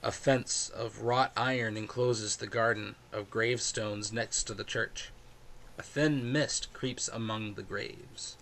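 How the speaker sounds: measured, slow scene narration; game master scene setting. Acted.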